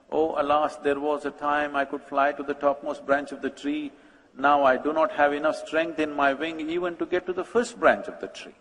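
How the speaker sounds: lightly wistful lament, evenly sustained; nostalgic pheasant. Acted. Pheasant gazing up at the tree, mildly nostalgic. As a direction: sigh over lost days, understated. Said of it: "very nostalgically looked up at the tree".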